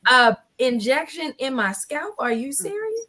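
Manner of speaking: incredulous, ending way up high; shocked disbelief. Retold or imitated. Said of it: "I'm like".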